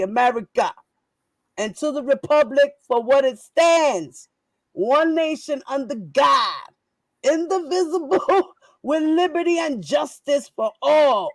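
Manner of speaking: loud, mocking recital of the pledge of allegiance; shouted pledge. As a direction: belt out the pledge like a defiant rally cry. Mock patriotic pledge recital.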